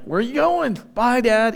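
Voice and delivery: put-on high little-kid voice, asking after dad; toddler son voice. Toddler son calling after dad at the back door, high child voice. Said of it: "he looks at me and he goes".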